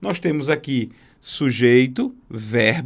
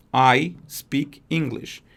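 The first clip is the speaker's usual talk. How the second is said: slow model sentence; much slower than usual. Shown as a demonstration. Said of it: "Quando ela vai dizer isso em inglês".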